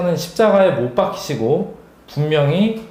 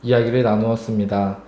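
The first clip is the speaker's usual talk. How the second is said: prayer voice. Acted. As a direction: pray it gently and sincerely. Leads closing prayer.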